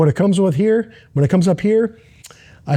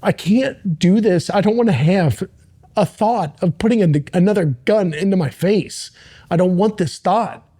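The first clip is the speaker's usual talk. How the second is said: man alone in his gym pleading with God, voice raised high and breaking; crying out to God; 4 semitones higher than usual. Retold or imitated. Man in his gym crying out to God in a desperate high plea. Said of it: "I remember crying out to God".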